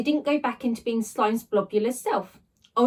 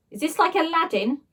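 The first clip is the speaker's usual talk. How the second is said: excited; 6 semitones higher than usual. Acted. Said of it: "asked Ned excitedly".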